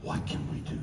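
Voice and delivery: hushed, half-voiced lyric line; soft lyric quote. Singer quoting his lyric softly to the crowd. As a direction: breathe the song's question quietly. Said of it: "So Blue are the lyrics".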